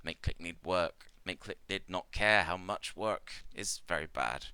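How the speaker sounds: lightly voiced insect-like trader in broken English; a gentle creature trader, halting and simple; Clicknid merchant. The GM voicing Ikmar to the adventurers, lightly halting.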